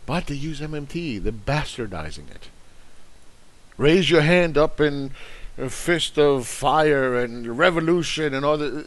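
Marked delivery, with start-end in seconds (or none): 3.8-8.9 slow, lofty mock rallying cry; mock revolutionary. Mocking MMT fans as would-be revolutionaries, slow mock rally cry. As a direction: ham up a revolutionary orator, slowly.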